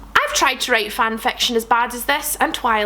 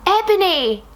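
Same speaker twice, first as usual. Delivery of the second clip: hammed-up shout; 7 semitones higher than usual. Draco calls after Ebony, a hammed-up sad shout. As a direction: call out after her in mock despair. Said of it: "shouted Draco sadly".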